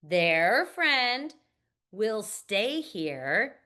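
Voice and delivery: "Their friend" then a pause, "will stay here" slowly; two phrased chunks with a clear break; phrased reading in two chunks; read in two parts. Shown as a demonstration. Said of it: "let's read it two parts".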